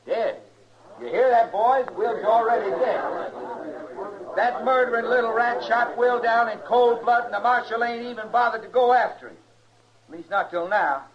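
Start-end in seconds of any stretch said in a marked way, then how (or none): 1.0-9.4 outraged yell to the crowd, rushing the last line; angry shout. Acted. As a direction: whip the boys into a fury. Mob leader stirs up the crowd.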